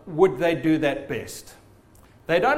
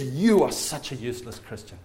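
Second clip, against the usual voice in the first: lightly voiced low accusation; accusing devil; 5 semitones lower than usual. Devil rounding on a Christian who gave in, accusing. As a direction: drop lower to condemn, as the devil. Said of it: "then he accuses you".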